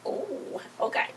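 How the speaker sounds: high, quiet squeaky oh okay; tiny high-pitched startled okay; mock surprised oh. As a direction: squeak it out like you're taken aback. Own reaction to the threat.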